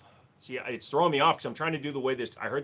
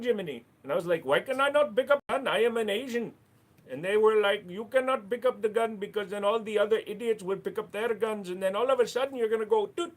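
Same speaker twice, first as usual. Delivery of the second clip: mock Asian accent; 8 semitones higher, 5 dB louder than usual. Jokey apology in put-on Asian voice.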